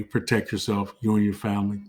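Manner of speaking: hoarse voice. Real, not acted. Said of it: "I'm sorry I'm losing my voice".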